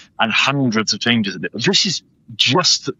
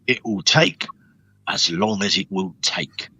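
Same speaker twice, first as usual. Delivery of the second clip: Mister Bull impression. Shown as a demonstration. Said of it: "Mister Bull from Peppa Pig".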